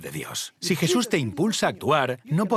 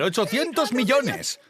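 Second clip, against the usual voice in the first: much higher, slower, jubilant cry; excited yelling; 9 semitones higher, slower than usual. Retold or imitated. Wife leaping around telling the family, jubilant cry. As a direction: jump and shout the number for joy. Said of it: "Empieza a saltar y a gritar".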